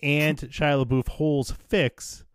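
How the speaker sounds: punchy pretend promo voice; mock ad read. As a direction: sell it like a fake sponsor spot. Mock sponsor read for Disney Plus.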